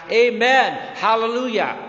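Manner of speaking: loud, high Amen hallelujah; crying out. A narrator's reading. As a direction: call it out like a worshipping crowd. Elders crying out praise.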